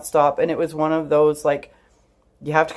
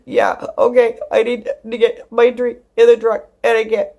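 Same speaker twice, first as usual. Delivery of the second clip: high, loud blubbering through mock sobs; hammed-up crying, broken into gasped bursts; imitated sobbing; 7 semitones higher, 5 dB louder than usual. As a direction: act out choking words out while bawling. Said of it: "sobbing uncontrollably".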